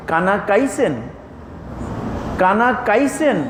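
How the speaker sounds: কানা কাইছেন with a plain k in place of kh; Mymensingh k. Shown as a demonstration. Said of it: "তাহলে সব ক".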